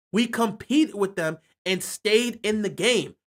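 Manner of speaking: slowed down, each word weighed; slow emphatic repeat. Shown as a demonstration. Fan repeating his point to viewers, slow and emphatic. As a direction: drive the point home slowly. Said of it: "but we competed with them and stayed in the game".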